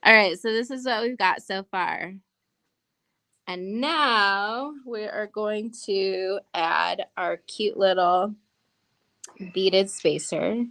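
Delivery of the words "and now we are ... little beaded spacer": slow, drawn-out announcer build-up. Acted. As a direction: hype it like a fighting game announcer. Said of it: "has the best announcer voice".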